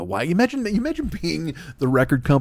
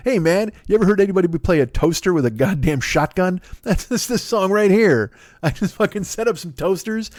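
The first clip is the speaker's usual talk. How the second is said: higher, hyped rocker pitch; excited singer; 5 semitones higher than usual. Retold or imitated. The singer hypes his toaster song to the label, high and excited.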